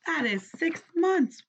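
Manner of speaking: whispered aside. Real, not acted. Teacher telling children the months, whispered aside. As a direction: breathe it as a secret. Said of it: "whispered aside".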